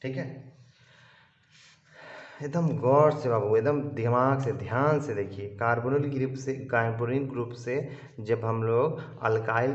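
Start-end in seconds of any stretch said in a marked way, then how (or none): 2.4-5.5 louder, pressing the class to watch closely; emphatic teacher plea to watch carefully; urging attention. Real, not acted. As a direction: call them to focus, firm and loud.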